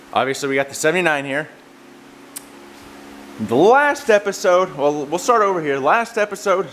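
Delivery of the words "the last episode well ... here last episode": wind on mic. Real, not acted. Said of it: "sorry for the wind noise".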